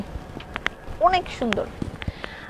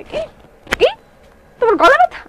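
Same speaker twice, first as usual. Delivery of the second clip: brothers mocking; 10 semitones higher than usual. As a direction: jeer it like a scornful brother. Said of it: "ওরা আমার সাথে কি অত্যাচার করে".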